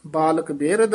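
ਬਾਲਕ ਬਿਰਧ, halting briefly on ਬਿਰਧ; brief halt after. Shown as a demonstration. Teacher marking pauses for students, short halt after ਬਿਰਧ. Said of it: "ਇੱਥੇ ਠਮਕ".

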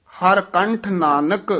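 ਹਰ ਕੰਠ Nanak joined, rising, halting after Nanak; brief pause. Shown as a demonstration. Teacher marks the short break, halting after Nanak. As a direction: check lightly after Nanak. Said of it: "ਇੱਥੇ ਠਮਕ ਹੈ".

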